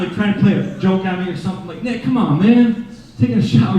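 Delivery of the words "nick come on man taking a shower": calling out. Retold or imitated. Calling roommate from the shower.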